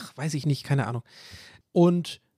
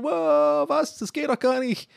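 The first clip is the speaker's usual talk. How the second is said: mock astonishment; 11 semitones higher, slower than usual. Listeners amazed the host is outside. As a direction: gasp in fake disbelief. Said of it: "alle so".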